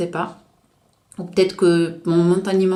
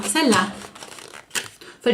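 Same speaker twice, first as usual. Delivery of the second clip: ordinary talk, nothing marked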